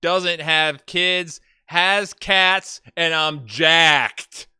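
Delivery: loud, hammed-up profile read; dramatic profile reading. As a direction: read it like a bold personal ad. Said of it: "maybe I should do a southern accent".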